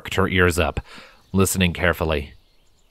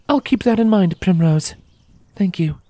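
higher character voice, lightly amused; Scarlet, amused; 12 semitones higher, 3 dB louder than usual. A narrator's reading. Scarlet thanks Primrose after laughing, amused character voice. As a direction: thank the filly with a smile in the voice.

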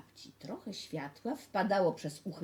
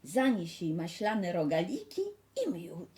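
lightly voiced mother, louder and higher at the start; Red Riding Hood's mother; 6 semitones higher, 5 dB louder than usual. Mother sending the girl to grandma, lightly acted motherly voice. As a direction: send the child off like a mother.

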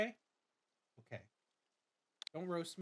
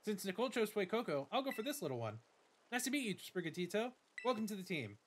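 lightly voiced eager rival girl; a touch of bubbly friendliness; Nemona; 6 semitones higher than usual. Nemona meets her new neighbor, lightly eager voice.

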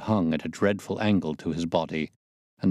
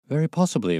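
higher, forced cry with a ghastly smile; 8 semitones higher, 3 dB louder, faster than usual. A narrator's reading. Pinner to the visitors, a ghastly forced cry. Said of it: "cried Mister Pinner with a ghastly smile".

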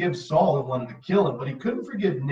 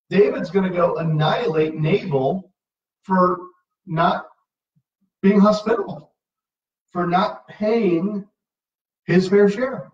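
mock outrage; 4 semitones higher, 3 dB louder than usual. Mocking David's petty revenge motive.

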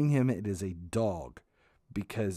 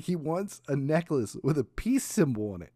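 deadpan mom; 6 semitones higher, 3 dB louder than usual. Retold or imitated. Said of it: "She's like".

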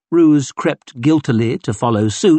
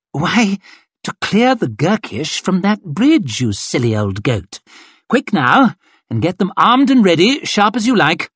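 brisk mocking colonel; 7 semitones higher than usual. Colonel hurrying his captain, brisk and scornful. Glocta scolds Lackenhorn.

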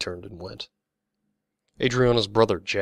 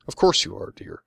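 higher, louder, absent-minded brush-off; distracted reply; 8 semitones higher, 4 dB louder than usual. A narrator's reading. Missus Hamilton humoring grown-up Davy, distracted. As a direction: toss off a higher, distracted assurance. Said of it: "she replied distractedly".

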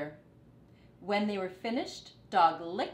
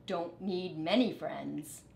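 quiet thought. Acted. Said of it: "thought Rat".

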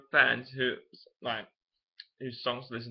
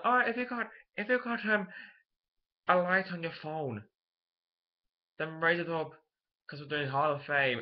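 attempted Irish accent, rallying a concert crowd; Irish frontman talking to the audience; Danny; 2 semitones higher than usual. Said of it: "that was a good Irish accent".

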